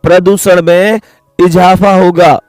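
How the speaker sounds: slow, clear reading of the statement; reading the question aloud. Shown as a demonstration. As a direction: read the exam line slowly and plainly. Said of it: "सवाल कह रहा है".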